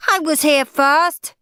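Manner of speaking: loud high slow shout. A narrator's reading. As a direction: claim her place in line. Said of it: "shouted Lazy Linda".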